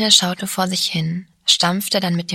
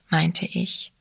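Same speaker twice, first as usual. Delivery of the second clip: ordinary delivery, nothing marked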